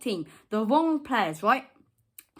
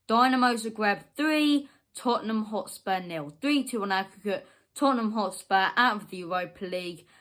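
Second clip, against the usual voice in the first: repeating the scoreline for viewers; scoreline spelled out. Real, not acted. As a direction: read the result out like a verdict. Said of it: "let me repeat that for you".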